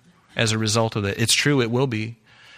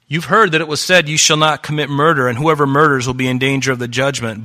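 raised, louder scripture quote; quoting Jesus; 3 semitones higher, 7 dB louder than usual. Retold or imitated. Preacher quoting Jesus to the congregation, declaiming loudly. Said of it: "He's saying".

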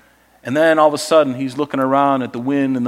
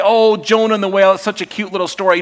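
mocking; 3 semitones higher, faster than usual. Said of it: "When people say".

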